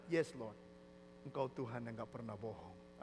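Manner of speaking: low, soft reverent aside; hushed prayer. Retold or imitated. Preacher answering God after a healing, hushed. Retold awed reply to God.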